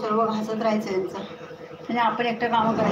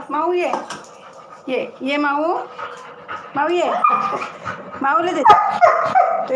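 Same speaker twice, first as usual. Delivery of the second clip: loud drawn-out call to the cat, higher pitch; 4 semitones higher, 4 dB louder, much slower than usual. Real, not acted. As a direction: call the cat from across the yard, slow and loud. Calling the cat to eat.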